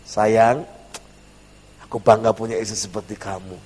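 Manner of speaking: soft, low sweet-talk; gentle praise. Acted. Husband praising his wife, gentle and sweet. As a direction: speak tenderly, softly and low. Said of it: "lebih lembut, baik".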